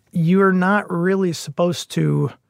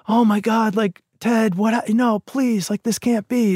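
higher-pitched imitation of a panicked friend; mock freaking out; 5 semitones higher than usual. Bill stumbles upon his friend's body, imitated freaking out. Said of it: "freaking out".

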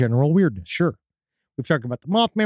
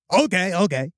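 lightly voiced odd man; weird stilted stranger. Odd candidate answering the clerk, mildly stilted. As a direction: acknowledge it as if speech is unfamiliar. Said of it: "speaks like he's never spoken before".

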